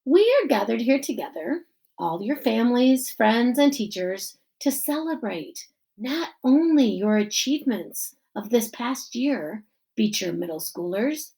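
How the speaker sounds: lightly voiced principal at a podium; principal giving speech. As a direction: address the crowd as the principal.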